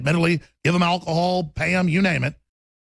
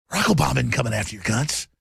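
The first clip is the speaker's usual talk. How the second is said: ordinary delivery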